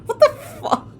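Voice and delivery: shocked outburst. Real, not acted. Gamer reacts to being handcuffed again, shouting. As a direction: yell in disbelief at the game.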